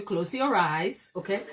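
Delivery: slow, hushed coaxing to close the eyes; slow soothing guide. Pretend. Host slowly coaxing viewers to close their eyes, mock soothing. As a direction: draw the viewers in like a hypnotist. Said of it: "Now I sound like a scam artist".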